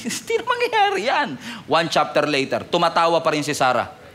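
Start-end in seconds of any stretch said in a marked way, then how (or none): 0.0-1.3 scoffing laugh. Acted. Voicing Sarah's disbelief.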